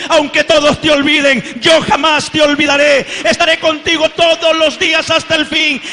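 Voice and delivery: loud preaching, almost shouting; impassioned preaching. Acted. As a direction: proclaim it to the whole church.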